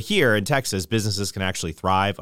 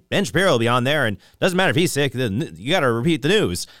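lightly voiced quick news anchor; a hint of a fast news read; newsreader impression; 4 semitones higher than usual. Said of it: "That wasn't really Ben Shapiro".

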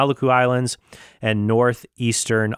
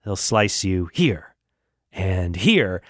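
lightly voiced paleontologist; 3 semitones lower than usual. Paleontologist warning the kid with the claw, understated menace. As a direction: lightly act out a measured warning. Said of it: "and he's like".

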